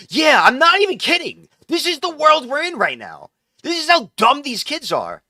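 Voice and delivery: high, loud, disbelieving rant; exasperated outburst. Real, not acted. Vlogger ranting to viewers about dumb kids, loud and exasperated. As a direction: belt it out at the absurdity.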